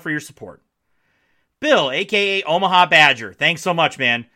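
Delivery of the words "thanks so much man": words pushed out on a burp. Real, not acted. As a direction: talk through a small burp. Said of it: "Oops, second burp".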